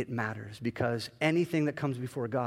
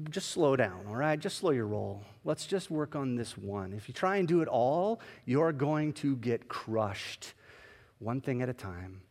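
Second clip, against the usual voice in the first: reassuring; 3 dB quieter than usual. Retold or imitated. God calming the pastor.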